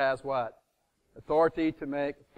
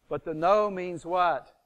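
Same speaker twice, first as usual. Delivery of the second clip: slow, deliberate question, a little louder; slow, louder teacher question; slow prompt; 3 semitones higher, 4 dB louder, slower than usual. Shown as a demonstration. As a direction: push the class for the answer. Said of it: "repeated prompt".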